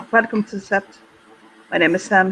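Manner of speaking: a light German accent, lightly voiced. Tall Native American werewolf greets the newcomer, mild German accent. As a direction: welcome them with a hint of a German accent. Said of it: "comes a German accent".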